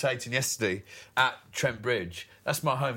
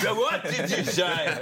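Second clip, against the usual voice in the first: slow, raised mock outrage; defcon-five blow-up; 5 semitones higher, slower than usual. Player imitates teammate erupting at the crowd, mock fury. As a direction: play a hothead taking the bait, drawn out. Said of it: "defcon five".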